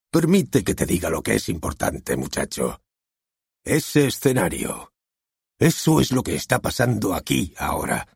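a hint of a lecturing stage director; lightly voiced director. Director lectures the young author, lightly voiced. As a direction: lay it down to the young man.

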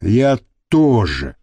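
low, slow and grim; a thug grimly agreeing to kill too. Acted. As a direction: drop it darkly. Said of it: "мрачно добавил Костолом".

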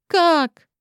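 sharp astonished "how?"; surprised question. Acted. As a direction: blurt it out in disbelief. Героиня поражена словами Лины. (удивлённо)

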